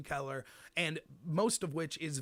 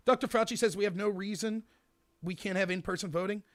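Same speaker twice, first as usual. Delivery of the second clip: raised, forceful evidence reading; debate round reading; 4 semitones higher, 5 dB louder than usual. Shown as a demonstration. First team reading evidence in a round, raised and forceful. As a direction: read the card out higher and punchy. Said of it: "This is what they would say".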